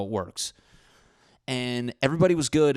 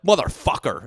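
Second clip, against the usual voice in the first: loud, higher hammed-up curse; mock exasperated yell; 5 semitones higher, 8 dB louder than usual. Friends splitting the bill, shouting in mock frustration. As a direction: yell it like a fed-up diner. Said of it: "and they're like".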